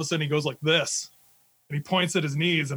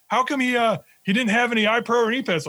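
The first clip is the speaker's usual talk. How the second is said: higher-pitched mock demand; imitated sergeant major; 6 semitones higher than usual. Sergeant major asks team leader about missing gear, imitated demand. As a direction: question like a displeased officer, retold.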